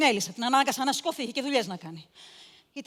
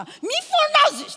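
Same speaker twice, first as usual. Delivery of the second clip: high, slow, drawn-out hush; a hint of a false soothing aunt; hushing the girl; 8 dB louder, slower than usual. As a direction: coax her into silence, falsely sweet. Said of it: "της λέω".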